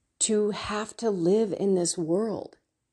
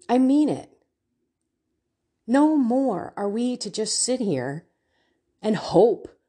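riled up. Real, not acted. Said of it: "I'm getting kind of riled up here".

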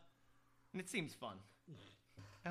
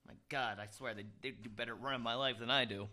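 while sipping a drink; 7 semitones lower, 6 dB quieter than usual. Real, not acted. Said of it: "Sorry, I'm sipping".

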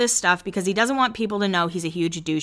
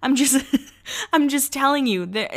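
awkward guy laughing it off; 6 semitones higher than usual. Retold or imitated. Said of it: "And he goes".

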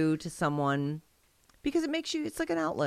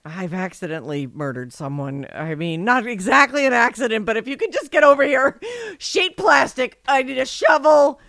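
mock panic; 3 semitones higher, 4 dB louder than usual. Mock panicked call to friend.

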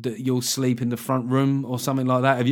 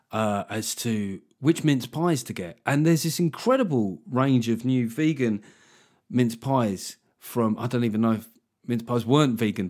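a mock-casual advert read in a chatty tone; fake ad read. Shown as a demonstration. Comedian pretending to chat casually in a fake podcast ad. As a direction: sell the product while pretending to just chat. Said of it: "Did that seem conversational enough?".

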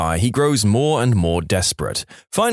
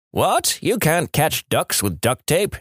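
mock yelling back; 5 semitones higher, slower than usual. Old man corrects the kid, disbelieving mock yell. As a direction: play an old guy scoffing in raised pitch. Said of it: "he yells back".

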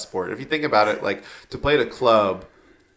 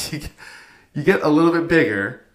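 higher, careful coach voice; 4 semitones higher than usual. Retold or imitated. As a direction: tactfully explain weight gain. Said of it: "And she was like".

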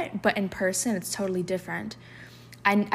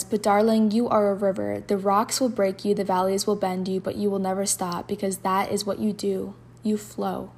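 louder, tender poem recital; poem reading; 3 dB louder than usual. Acted. Host reading a river poem to listeners, recited. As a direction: read it like a gentle poem.

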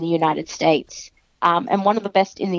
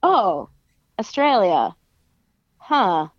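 mock dismissive; slower than usual. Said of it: "It's not like".

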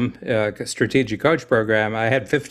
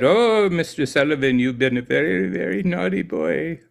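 imitating an Indian accent, raised pitch; light Indian accent impression, scolding; 5 semitones higher than usual. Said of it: "distinctly Indian voice and said".

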